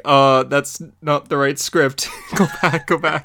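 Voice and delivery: laughing, teasing go back; mock scold through laughter. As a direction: tease him while laughing. Mocking reply to wrong script.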